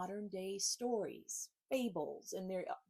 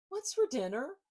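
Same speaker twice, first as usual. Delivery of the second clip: longing housemates; 8 semitones higher, 7 dB louder than usual. Acted. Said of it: "look up at you longingly and ask".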